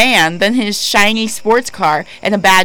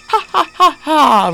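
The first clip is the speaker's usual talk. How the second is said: imitating her laugh; 6 semitones higher than usual. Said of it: "I laugh out loud with my mouth open".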